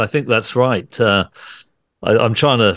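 hoarse voice, a touch rough; raspy voice. Real, not acted. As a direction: talk on through a croaky throat. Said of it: "forgive my voice".

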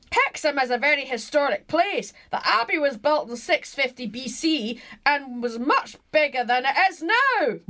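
put-on emphatic Glasgow accent, reading out; granddad's Glasgow accent. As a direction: read it as a Glaswegian granddad. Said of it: "do it in his accent".

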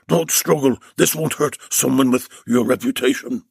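a lightly roughened disguised captor voice; rough. Acted. Captor warns bound Bill to stop struggling, roughly. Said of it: "the voice said roughly".

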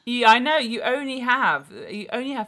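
high, loud, gleeful ribbing; excited teasing. Real, not acted. Friend teasing her about handsome builders, high and gleeful. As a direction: pounce on her with delight.

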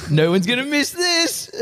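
high, slow, through giggles; laughing. Retold or imitated. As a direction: sneak it out while laughing. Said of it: "He's just like".

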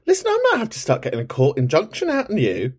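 high, playful fake threat; mock stern. Host teasing a caller who rings every week, mock stern. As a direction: tease him with a pretend warning.

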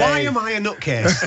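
asked through a burst of laughter, high; laughing. Real, not acted. Teasing his co-host about his Google searches, laughing. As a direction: laugh your way through the question. Reading co-host's imagined search history.

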